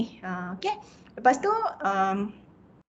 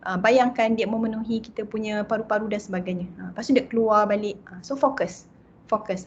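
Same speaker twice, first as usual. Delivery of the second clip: light meditation voice; guided breathing. Acted. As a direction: lead the listener gently through each breath.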